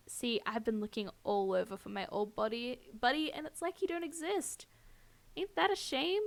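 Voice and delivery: a hint of syrupy cowboy villain; saccharine drawl. Stalker on his missing old buddy, light saccharine drawl. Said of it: "drawling voice is saccharine venom".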